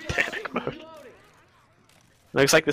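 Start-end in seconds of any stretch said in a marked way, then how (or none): 0.1-0.8 mock panic. Echoing co-caster's phrase.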